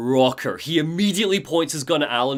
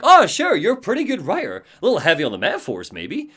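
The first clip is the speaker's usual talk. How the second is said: Sarah. Retold or imitated. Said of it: "And Sarah's like".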